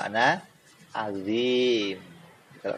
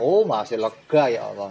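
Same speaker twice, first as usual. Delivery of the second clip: hell still roomy; 3 semitones lower than usual. Retold or imitated. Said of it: "Masih kurang".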